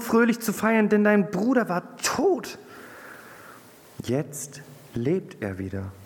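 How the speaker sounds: the father pleads, rising to joyful heights; coaxing. A narrator's reading. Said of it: "Sein Vater redete ihm zu". (zuredend, der Vater umwirbt den Sohn, steigert sich freudig)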